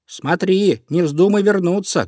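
high-pitched warning cry; hare calling after. A narrator's reading. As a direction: call a warning after someone fleeing. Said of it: "кричал ему вслед Зайка Петя".

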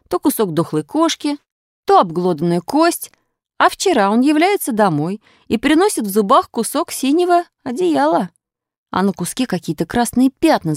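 high-pitched pupil voice, worked up; agitated schoolboy. A narrator's reading. Krasilnikov tells class about his dog's find, agitated high voice.

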